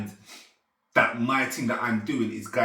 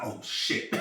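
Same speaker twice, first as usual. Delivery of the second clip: whispered, retold "oh shit"; hushed dismay; 6 dB quieter than usual. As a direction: whisper it as a stunned reaction. Retells dismayed reaction to crushed ring.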